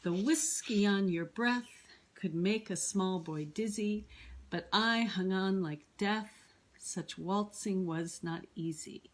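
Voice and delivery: measured reading of verse with a regular beat; metrical poem reading. Shown as a demonstration. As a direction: let the poem's rhythm be heard. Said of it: "You hear it really clearly when you read".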